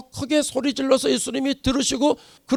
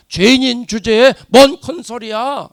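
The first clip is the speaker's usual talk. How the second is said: louder, contemptuous tut-tutting; mock scolding; 3 semitones higher, 6 dB louder than usual. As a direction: sneer at the beggar to shut up. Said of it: "핀잔을 주고 있다".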